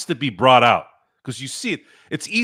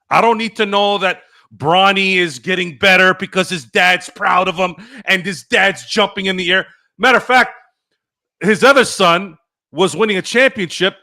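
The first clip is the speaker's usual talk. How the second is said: raised, exasperated complaint; angry rant; 4 semitones higher, 5 dB louder than usual. Real, not acted. Host fed up with proud-dad stories, angry. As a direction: push it out high and forceful. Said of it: "now you know where the anger comes from".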